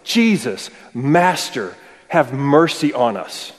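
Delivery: lepers crying out to Jesus from a distance; mild mock cry. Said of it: "cry out to him with a loud voice".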